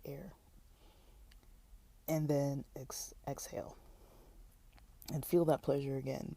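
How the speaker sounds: calm, soft meditation reading; guided meditation. Acted. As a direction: lead them gently into breathing. Reads guided meditation aloud.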